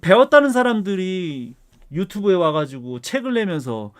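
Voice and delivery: heated, indignant lecturing with punched key words; worked-up rant. Real, not acted. Professor venting at online experts who treat guidelines as law, worked-up rant. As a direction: argue it hotly, voice riding up. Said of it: "이렇게 막 흥분을 해가면서".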